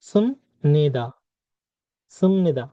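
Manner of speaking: সুমনিদা with m, sum-ni-da; Korean ending pronounced. Shown as a demonstration. Teacher models the polite ending for students. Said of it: "তাহলে এটা কি হবে?".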